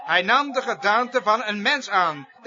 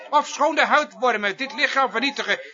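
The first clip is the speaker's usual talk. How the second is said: forceful preaching; 3 semitones higher than usual. Acted. Preacher urging listeners to heed Job's words, forceful preaching. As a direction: proclaim it emphatically, a little raised.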